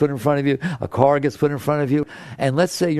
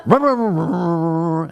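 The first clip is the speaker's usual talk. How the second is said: engine running. Retold or imitated. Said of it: "turned it, and went".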